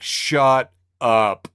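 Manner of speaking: exasperated shut up. Retold or imitated. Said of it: "And I'm like".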